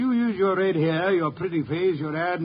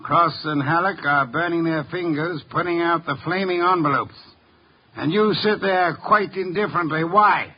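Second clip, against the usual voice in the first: raised, pressing interrogation; louder, hammering accusation at the suspect; forceful accusation; 5 dB louder than usual. Acted. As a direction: corner him with each question. Detective accusing suspect at confrontation.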